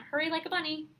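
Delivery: put-on mom hurrying a child. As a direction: lightly mimic a mother's hurry-along. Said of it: "I remember that all the time".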